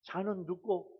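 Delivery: terse Gyeongsang-accented question; Gyeongsang dialect. Shown as a demonstration. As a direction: demonstrate a curt Gyeongsang way of asking. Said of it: "경상도 말로".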